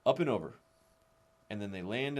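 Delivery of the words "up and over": up and over called out higher and louder; called cue. Shown as a demonstration. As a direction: call up and over to the kids.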